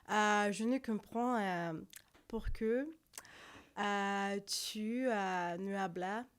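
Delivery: halting Spanish with a French accent. Shown as a demonstration. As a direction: feel your way through Spanish in a French accent. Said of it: "speak with a French accent".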